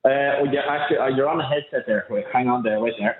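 on speakerphone, far from mic; phone line with room echo; echoey speakerphone. Real, not acted. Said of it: "it's a bit echoey".

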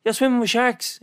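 high, alarmed question to the boat man; shocked disbelief. Retold or imitated. Telling a friend about the shark trip, shocked. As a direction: pitch it up in disbelief. Retelling his shocked reaction.

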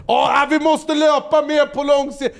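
hånfull härmning av gubben, hög och långsam; härma en tönt gravallvarligt och sakta; mocking old man. Hånar gubben som tränade. (hånfull gubbröst, ljus och långsam)

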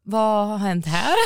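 drawn-out puzzled question; slow bewilderment. Retold or imitated. Date comes from the shower, slow bewilderment. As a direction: imitate him slowly taking in the damage. Date discovers the broken blinds.

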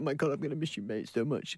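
mock tearful boys. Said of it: "they're like".

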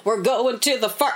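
lightly hammed-up cheery show-tune delivery; mock happy musical. Dismissing earnest musicals to co-host, mock happy. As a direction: parody a jolly musical number. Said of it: "not like you're happy, like".

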